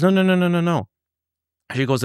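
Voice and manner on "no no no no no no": high, rapid string of mock-panicked noes; acted-out urgent interruption; frantic refusal. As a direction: imitate her cutting in, pitched way up. Retelling her frantic interruption.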